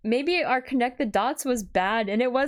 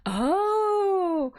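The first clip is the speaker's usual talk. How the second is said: breathy whispered realization; 8 semitones higher than usual. Real, not acted. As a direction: whisper it, stunned. Realizing twist, whispered gasp.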